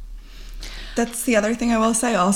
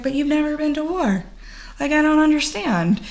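confused nephew; 8 semitones higher than usual. Retold or imitated.

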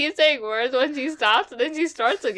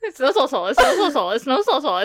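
trying not to laugh. Real, not acted. Tongue twister while laughing.

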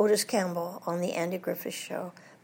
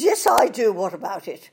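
Dowager Duchess; 8 dB louder than usual. Retold or imitated. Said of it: "She says".

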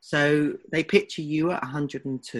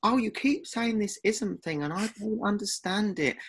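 lightly mimicked complaint, pitched higher; mock the co-host's feigned confusion, a little higher; mocking imitation; 5 semitones higher than usual. Podcaster imitates co-host pretending not to understand, lightly mocking. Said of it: "you did this whole little".

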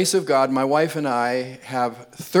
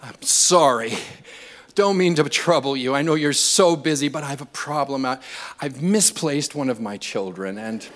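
overly polite Canadian; 3 semitones higher than usual. Retold or imitated. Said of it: "More Canadian".

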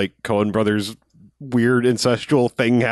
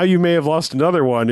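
higher-pitched imitation of a scolding mother; mock furious mom; 4 semitones higher than usual. Imitating a mom questioning her son, mock furious. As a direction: retell a mom's furious telling-off. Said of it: "she's fucking furious".

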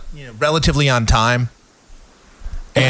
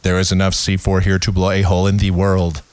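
low, wooden monotone; mocking a bad actor's deadpan; Keanu Reeves; 5 semitones lower than usual. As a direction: deliver an action line with no emotion. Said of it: "Keanu Reeves School of Acting".

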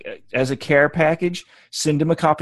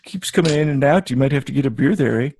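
put-on Canadian accent. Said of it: "I always went to the Canadian".

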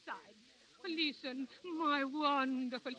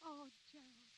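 dreamy hush. Acted. Dreamy romantic reverie.

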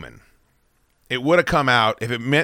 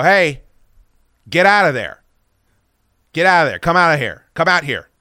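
raised voice calling into the bushes; firm warning yell; retold yelling; 4 semitones higher, 5 dB louder than usual. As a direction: shout a warning at the dark. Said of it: "I'm yelling this now".

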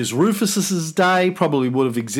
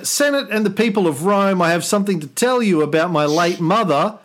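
grand, higher emperor voice; roman orator; 4 semitones higher than usual. Acted. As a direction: address the Senate like Nero. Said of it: "Listen, uh".

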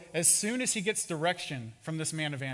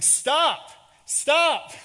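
high, loud shout; two big, separate shouts; yelling; 11 semitones higher, 11 dB louder than usual. Acted. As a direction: yell it as if calling someone back from afar. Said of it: "his family is yelling in the distance".

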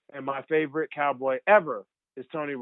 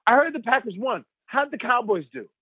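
imitating mom; 9 semitones higher than usual. Mother voiced in story.

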